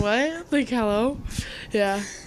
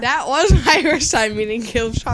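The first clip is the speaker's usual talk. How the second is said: laughing; slower than usual. Real, not acted. Laughing while answering.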